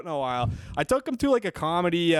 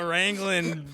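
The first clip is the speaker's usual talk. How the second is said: put-on Southern accent; slower than usual. Joins in the Southern cowboy bit.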